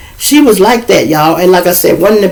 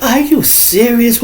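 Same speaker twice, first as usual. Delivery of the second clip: higher, slow, incredulous; disbelief; 8 semitones higher, slower than usual. Retold or imitated. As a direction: drag it out in disbelief. Disbelief at girlfriend.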